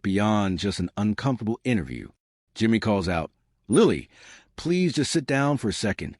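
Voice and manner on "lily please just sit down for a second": pleading, higher on please; mildly desperate call after her; understated desperate plea. Retold or imitated. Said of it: "this desperation in his voice".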